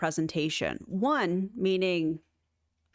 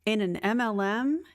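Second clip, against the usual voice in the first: slow whispered disbelief; incredulous whisper. Real, not acted. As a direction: breathe it out in disbelief. Mocking MLM pitch.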